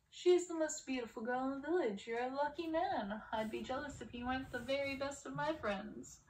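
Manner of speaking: a hint of smug buddy flattery; hearty Gaston. Gaston congratulating his best friend the prince, loud and hearty.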